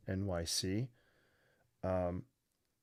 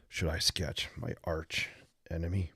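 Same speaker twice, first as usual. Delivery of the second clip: Batman voice; 3 semitones lower than usual. Shown as a demonstration. Joking to viewers about sketching an arch enemy, mock Batman voice. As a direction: play the brooding caped hero, half-hearted. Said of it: "I'll do that as Batman".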